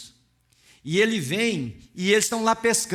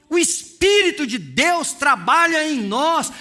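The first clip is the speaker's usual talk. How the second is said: louder, higher fervent preaching voice; 8 semitones higher, 5 dB louder than usual. Acted. Preacher stirs the church about Peter's guilt, fervent and loud. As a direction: lift the room with rising passion. Preacher rises to full force.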